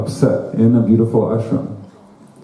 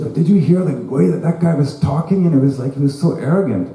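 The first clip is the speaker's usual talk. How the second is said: gossiping wife; 5 semitones higher than usual. Retold or imitated. Wife gossiping after satsang.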